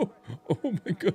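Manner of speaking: mock commentator voice, pitched way up, laughing disbelief. Retelling a commentator's reaction to a hit, imitating a laughing commentator. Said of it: "he was laughing when it hit him".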